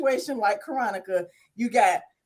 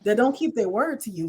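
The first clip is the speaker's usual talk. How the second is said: calm retort; 2 semitones higher than usual. Retold or imitated. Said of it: "response was very calm".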